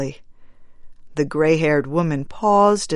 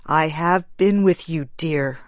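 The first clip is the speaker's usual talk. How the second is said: gentle. Acted. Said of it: "said the man gently".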